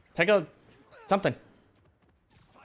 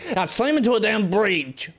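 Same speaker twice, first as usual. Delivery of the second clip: frustrated outburst; 7 semitones higher, 5 dB louder than usual. Real, not acted. Frustrated at crash.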